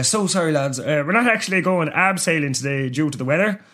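lightly voiced Irish instructor introducing himself; a hint of smug outdoorsman; sarcastic outdoor instructor. Plays Gallagher, the outdoor instructor.

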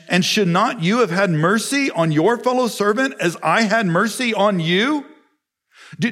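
high, loud rebuking master; stern rebuke. Acted. Master rebukes the unforgiving servant, high stern voice. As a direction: scold the wicked servant.

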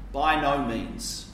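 dry, restrained "By no means"; understated. Shown as a demonstration. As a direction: say "By no means" politely, without force. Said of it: "It's kind of understated".

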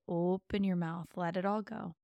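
usual speaking voice

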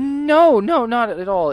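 hurried acted protest from a flustered student; flustered denial. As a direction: blurt it out, caught out and embarrassed. Olivia denies a love spell accusation.

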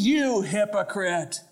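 slow, lightly sneering hypocrite jab; the accuser's voice. Acted. Accuser sneering at the believer, slow and mild. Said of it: "You ever hear that voice?".

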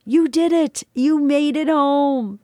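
high, ringing calls of welcome; celebrating angel friends; joyful angelic shouts. Acted. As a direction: cheer her in, drawing out home. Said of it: "my friends shouted with approval and roared in joy".

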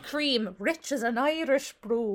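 lightly hammed-up Irish brogue; bad Irish accent. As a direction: recite it in a twee Irish accent. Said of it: "My Irish accent is worse".

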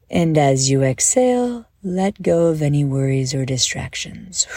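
calm, measured guided-visualization voice; unhurried guide easing them into a daydream; guided meditation. Acted. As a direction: lead listeners gently through breath and imagery, with pauses.

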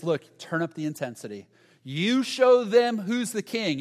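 put-on the young advisers urging Rehoboam to flex, pumped up and loud; pushy friends. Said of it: "his friends are saying this".

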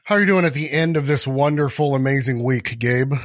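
dry, sarcastic question about a bad week. Real, not acted. Host teasing co-host with a lightly sarcastic greeting. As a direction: ask it with mock cheer, meaning the opposite. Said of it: "I can tell that was a sarcastic tone in your voice".

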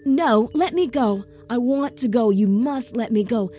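frightened captive pleading; desperate plea. Acted. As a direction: beg to be released. Enoch pleading, held captive.

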